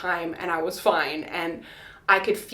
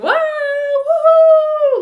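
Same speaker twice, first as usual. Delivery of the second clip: high, loud, stretched woohoo; cheering yell; 11 dB louder, much slower than usual. Retold or imitated. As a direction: cheer like the midwives did. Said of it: "the midwives were yelling".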